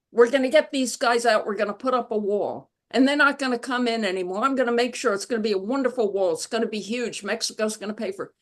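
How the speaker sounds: rattled-off fast, brash promises; a light imitation of a rally speech, rushing; mock campaign boast. Mimicking the candidate promising voters a wall, fast brash boast.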